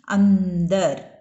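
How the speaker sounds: अंदर drawn out slowly, the n clearly sounded; slow, stressed nasal. Shown as a demonstration. Teacher modelling the word slowly for the class. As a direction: stretch अंदर slowly and lean on the n. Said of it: "अ के ऊपर dot लगाना है।".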